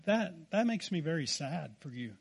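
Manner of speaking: softly imitated wifely disappointment; quiet sadness. Wife to her worked-up husband, retold as quiet sadness. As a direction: drop to a soft, understated reproach. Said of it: "she got really quiet".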